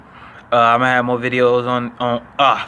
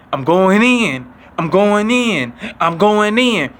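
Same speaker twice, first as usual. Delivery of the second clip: raised voice, slow and chanting "I'm going in"; classmate hyped up; 5 semitones higher, much slower than usual. Retold or imitated. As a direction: psych yourself up for a fight, a little higher. Classmate hyping himself again.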